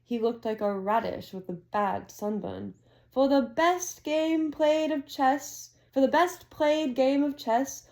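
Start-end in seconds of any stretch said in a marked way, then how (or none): 3.1-7.9 a hint of a grand headmaster. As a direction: draw the award out with ceremony. Dumbledore awarding points, slowed.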